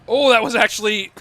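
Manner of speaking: high and loud, breaking into a laugh. Real, not acted. Caster laughing at how close the fireball came, high and loud. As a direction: laugh through it, real relief.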